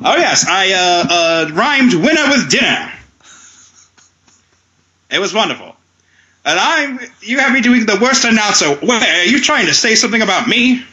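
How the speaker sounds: lightly voiced old-timey announcer; a hint of a vintage showman; grand old ballroom announcer. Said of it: "old-timey announcer Billy Robinson".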